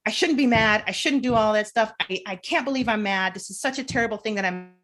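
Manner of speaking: a frustrated inner voice scolding itself; self-scolding. Acted. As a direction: berate yourself for being mad. Acting out self-critical inner voice.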